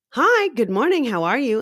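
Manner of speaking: high, chirpy barista hello; perky greeting. Acted. Barista opening with a customer, perky. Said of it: "I'm a perky as fuck".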